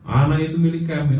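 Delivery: loud, high possessive snarl of a spirit; loud demon claim. Retold or imitated. Demon telling Smith the girl is theirs, loud. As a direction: claim the child as your own.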